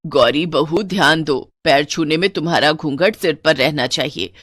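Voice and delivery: lightly voiced fussy mother-in-law; nagging mother-in-law. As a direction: warn the bride sternly about her veil.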